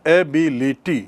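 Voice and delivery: एबिलिटी in four separated beats; syllable by syllable. Shown as a demonstration. Teacher recalling the example, एबिलिटी split syllable by syllable. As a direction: space out each syllable of एबिलिटी. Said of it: "जैसे मैंने बताया".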